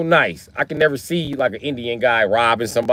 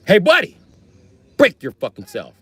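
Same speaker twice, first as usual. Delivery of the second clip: mock Jewish robber, loud high opening; Jewish guy; 6 semitones higher, 5 dB louder than usual. Jewish robber to victim, mock intimidating voice. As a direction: call out high, then drop for the threat. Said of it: "if a Jewish guy be like".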